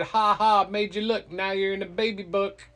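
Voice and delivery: loud, high mock "ha ha" jeer; gloating taunt. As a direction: tease him like a kid who won the trick. Girl gloats over tricked Loki.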